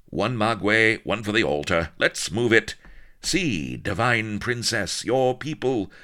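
rally the cats like a showman; brash hipster bandleader. Acted. Brasso's lines.

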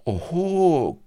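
high gleeful oho; pirate gloating at the captain's retreat; crowed. A narrator's reading. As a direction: crow in triumph. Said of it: "crowed Blood".

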